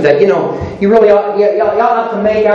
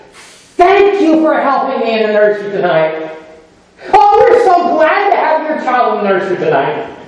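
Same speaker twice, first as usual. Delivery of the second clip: sweet greeting; 2 semitones higher than usual. Shown as a demonstration. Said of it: "talk to each other and say".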